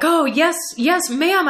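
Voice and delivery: salesman eager for another sale; bright, over-keen agreement. Retold or imitated. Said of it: "he came up so excited".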